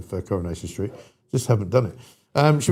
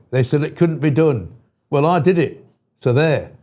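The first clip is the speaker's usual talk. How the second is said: put-on northern accent. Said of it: "Should I do the northern accent".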